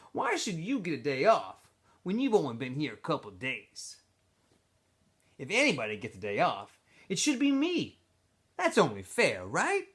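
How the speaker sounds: a smooth-talking camp leader pulling him aside; X-Ray's voice. Acted. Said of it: "X-Ray went on".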